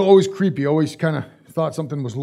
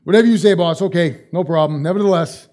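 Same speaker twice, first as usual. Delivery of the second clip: dismissive fisherman humoring the teacher, starting louder then trailing off; sarcastic; 3 dB louder than usual. Retold or imitated. Preacher voicing Peter brushing off Jesus, mock sarcastic. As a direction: roll your eyes and say "whatever you say, boss". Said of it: "his attitude was wrong".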